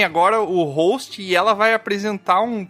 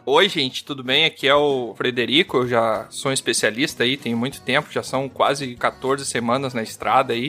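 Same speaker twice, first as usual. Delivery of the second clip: lower, laid-back race driver; low expert voice; 6 semitones lower than usual. Pretend. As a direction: play a chill racing expert. Playing racing expert Frederico.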